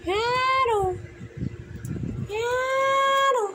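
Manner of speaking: high sing-out hello; calling hello. Real, not acted. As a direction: call out to the dog. Calling out to the pet.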